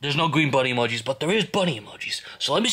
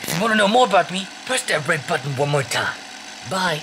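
lightly voiced chirpy bunny greeting; sing-song host, a hint of a cartoon bunny; cheerful bunny mascot; 2 semitones higher than usual. Bunny greets visitors from the recording, light cheerful mascot voice.

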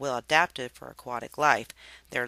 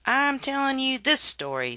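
high, sharp and louder; irritated father worm, raised and snappy; testy Father Worm; 11 semitones higher, 4 dB louder than usual. A narrator's reading. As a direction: bristle at the interrupting child. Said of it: "said Father Worm rather testily".

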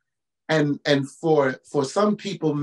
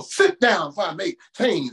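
cringy movie thug; 2 semitones higher than usual. Retold or imitated. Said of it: "did they think black people talk like that".

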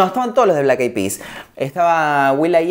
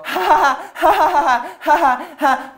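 high, forced fake ha-ha-ha, much higher pitched; fake forced laugh; 12 semitones higher, much slower than usual. Mocking a singer's fake laugh at the interview, high forced ha-has. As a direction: laugh on purpose, hollow and put-on. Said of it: "Falsa, impuesta de un cantante".

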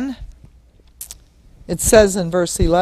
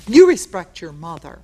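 put-on louder, firm order to a small child; stern parent order; 5 dB louder than usual. Parent ordering a six-year-old to respect mom, stern and loud. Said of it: "You talk like that to a six-year-old".

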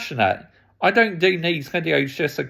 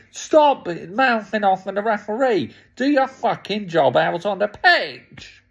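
higher, scolding Bruno straight on; annoyed telling-off; 4 semitones higher than usual. Real, not acted. Fan scolds Bruno for mouthing off at the referee, annoyed. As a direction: tell him off like he can hear you. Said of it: "I'm having a rant 'cause I'm so annoyed".

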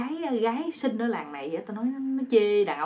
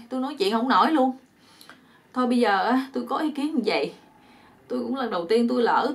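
lightly acted begging, pitched up; pleading man; 3 semitones higher, 3 dB louder than usual. Bound man asks two women for mercy, mildly acted pleading. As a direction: plead your case in a somewhat raised voice.

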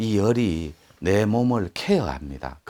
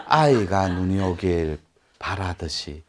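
spoken with a laugh. Shown as a demonstration. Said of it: "laughing repeat of the line".

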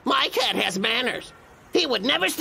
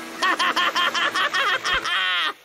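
gloating laugh; 7 semitones higher than usual. Acted. Gloats about peace and quiet.

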